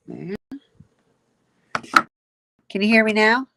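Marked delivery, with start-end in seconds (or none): 2.7-3.5 loud, asking to be heard; shouting on bad phone line. Real, not acted. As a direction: raise the voice over a bad connection. Mic problem, checking if heard.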